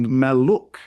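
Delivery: "Maluk" slowly as mal-luk; syllables separated. Shown as a demonstration. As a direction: sound the L in both syllables of "Maluk". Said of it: "pronounced twice in each of the syllables".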